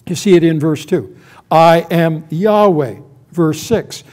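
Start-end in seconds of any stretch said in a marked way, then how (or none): 1.5-3.0 loud, slow proclamation; God's declaration. Acted. God repeats his name to Moses, proclaiming. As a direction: declare the name with weight on each word. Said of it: "he is going to repeat this statement".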